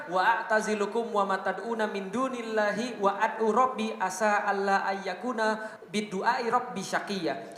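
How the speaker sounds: slow, measured Arabic chant; Quranic recitation. Acted. Preacher reciting Abraham's words to his father, slow reverent chant. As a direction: recite the verse slowly and reverently.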